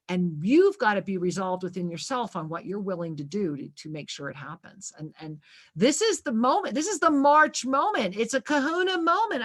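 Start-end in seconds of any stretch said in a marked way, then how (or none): 5.7-9.4 out of breath. Real, not acted. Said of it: "I'm out of breath".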